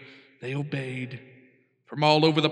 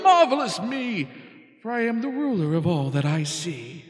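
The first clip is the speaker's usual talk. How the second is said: gloating king; 6 semitones higher, 3 dB louder than usual. Acted. King gloats from his throne.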